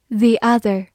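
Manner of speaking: "the" said as thee before "other"; long ee in "the", running into "other"; "thee" before vowel. Shown as a demonstration. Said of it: "它的发音会变成the或者the".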